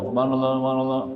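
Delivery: hurried careless recitation; rushed careless imam recitation. Shown as a demonstration. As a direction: gabble it like a hasty imam. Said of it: "Imam baca cepat bawah".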